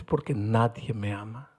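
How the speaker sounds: a mild imitation of a weeping boy; tearful. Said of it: "empezó a llorar".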